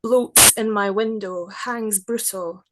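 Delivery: measured, unhurried poetry reading; poem reading. Acted. Poet reading her werewolf prayer to the interviewer, measured poetry voice.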